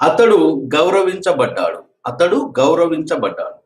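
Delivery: slow dictation. Shown as a demonstration. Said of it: "teacher dictating sentence".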